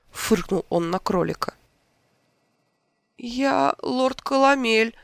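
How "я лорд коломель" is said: small high squeak, slow. A narrator's reading. Transformed lord squeaking his name to the king. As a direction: squeak it out like a tiny rabbit. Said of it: "пропищал второй кролик".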